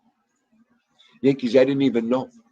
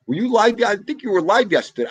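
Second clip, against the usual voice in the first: much higher and louder, surprised; 11 semitones higher, 6 dB louder than usual. Real, not acted. Surprised that a viewer went live, high and bright. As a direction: perk right up in surprise.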